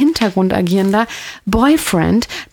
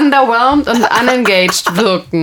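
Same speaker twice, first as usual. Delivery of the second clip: vocal fry; 3 semitones higher than usual. Shown as a demonstration. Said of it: "Warum macht man das?".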